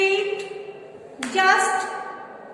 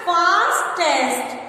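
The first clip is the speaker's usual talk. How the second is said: slow emphatic repeat; 4 dB louder, much slower than usual. Shown as a demonstration. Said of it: "क्या राइट करेंगे हम यहाँ पर?".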